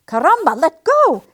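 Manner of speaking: loud, frantic cry to let go; panicked yelling. A narrator's reading. Guinea pig stuck fast, loudly yelling at the doll. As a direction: yell in sudden alarm.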